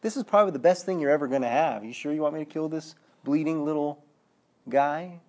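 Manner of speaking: lightly acted smirking remark; smart aleck. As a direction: imitate a smart aleck needling someone. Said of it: "this smart aleck remark saying".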